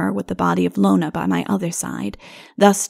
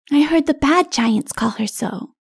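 put-on high-pitched little child voice; little child explaining; 7 semitones higher than usual. A narrator's reading. Little one answering king about giants, child voice.

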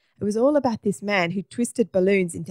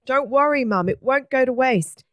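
put-on boy reassuring mum; 6 semitones higher, 4 dB louder than usual. A narrator's reading. Simon brightly reassures his mum.

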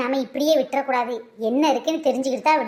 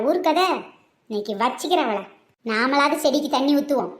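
muttering mother-in-law; 4 semitones lower than usual. Acted.

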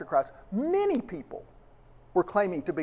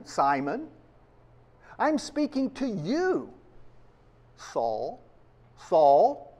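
slow, solemn call, repeating each name; a lightly voiced divine call, drawn out; gently intoned voice of the Lord calling by name; voice of God calling; slower than usual. God calling names in scripture.

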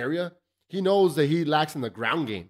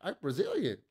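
high, soft, breathy-pitched Anderson Silva imitation in a famous pop singer's accent; mock the fighter's pop-singer accent, way up high and hushed; much higher, softer pop-singer accent impression; 13 semitones higher, 6 dB quieter than usual. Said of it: "with his weird, eh, fucking pop-singer accent".

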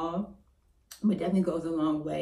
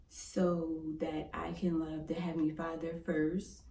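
whispering; 6 dB quieter than usual. Real, not acted. Sincere line about faith.

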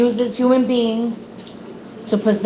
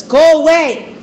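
higher-pitched, urgent outburst read aloud; raised, insistent challenge, mildly acted; shouting demon; 4 semitones higher than usual. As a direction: act out a demon crying out at Jesus. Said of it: "began shouting at Jesus".

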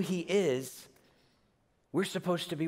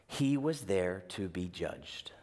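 slow, lower whisper; hushed whisper; 8 semitones lower, 5 dB quieter, slower than usual. Acted. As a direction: lean in and whisper it gravely. Quoting early Christian teaching.

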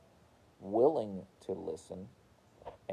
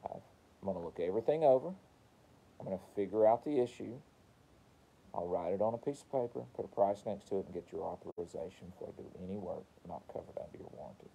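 technician's script; faster than usual. Shown as a demonstration. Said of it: "Just want you to say".

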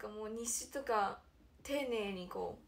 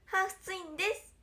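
higher, stiff idol self-introduction; a light take on a girl's camera greeting; imitating Konaa; 5 semitones higher than usual. Idol mimics Konaa introducing herself on camera, higher voice. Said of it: "って".

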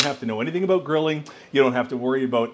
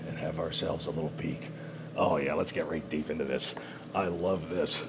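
hushed awe; 9 semitones lower, 10 dB quieter than usual. Real, not acted. Peeking into meat, hushed awe.

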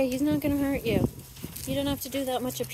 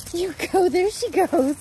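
cheering on; 5 semitones higher, 4 dB louder than usual. Real, not acted. Cheering the running puppy.

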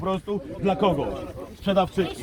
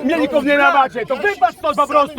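loud, higher order to get lost; real heated yell at officers; angry shout; 3 semitones higher, 4 dB louder than usual. Real, not acted. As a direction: bark them away, furious. Telling police to get out.

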